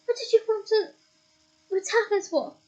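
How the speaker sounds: high, slow indignant demand. A narrator's reading. Ron indignantly demanding why they attacked. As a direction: demand an answer, offended.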